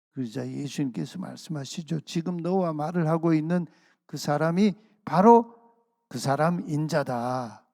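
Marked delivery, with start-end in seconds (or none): 2.0-7.6 raised, emphatic declaration slowing at the end; emphatic revelation. Acted. Jesus revealing himself to the healed man, emphatic declaration.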